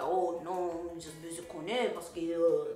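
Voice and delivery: lightly imitated French Creole speaker; a hint of French Creole male voice; his French Creole talk. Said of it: "that's how he talks".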